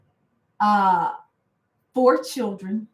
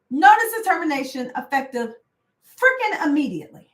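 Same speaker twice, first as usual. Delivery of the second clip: higher and mocking, leaning on freaking; indignant repeat; 5 semitones higher than usual. Real, not acted. Re-quoting the email to viewers, sarcastic and indignant. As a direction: spit the notice back with disgust.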